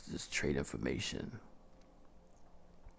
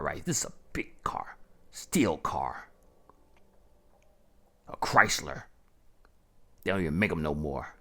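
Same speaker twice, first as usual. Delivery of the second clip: boastful; 5 dB louder than usual. Acted. Boasting about his big car.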